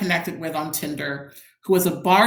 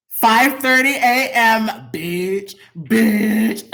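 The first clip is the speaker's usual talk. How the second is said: excited exclaiming; 3 semitones higher, 5 dB louder, much slower than usual. Real, not acted.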